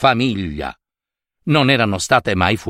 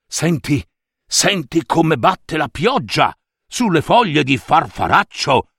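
a hint of papa snail exclaiming at the rain; half-acted delighted papa snail; lightly voiced snail father; 3 semitones higher than usual. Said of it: "esclamò papà lumaca". (papà lumaca che esclama, voce appena caratterizzata)

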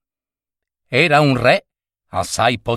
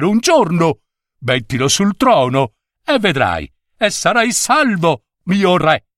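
put-on old wizard; 4 semitones higher than usual. Wizard urges the king.

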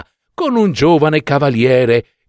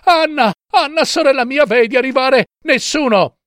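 high, urgent call to a sister; anxious cry; 14 semitones higher than usual. A narrator's reading. Wife calls to her sister on the tower, anxious cry. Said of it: "e poi gridava".

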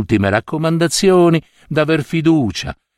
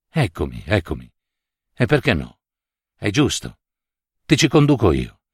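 gloomy; 3 semitones lower than usual. Acted. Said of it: "le rispose egli cupamente".

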